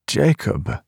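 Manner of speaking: put-on high elderly woman voice, hushed; old woman whispering. A narrator's reading. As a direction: call his name as an old grandmother. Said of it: "Grandma Rachel whispers".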